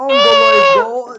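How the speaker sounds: loud, high hero yell; heroic shout. Pretend. Repeated louder shout.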